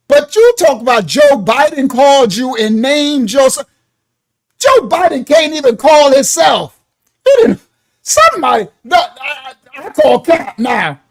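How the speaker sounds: loud disbelief at the joke; getting loud. Real, not acted. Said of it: "I'm definitely getting loud now".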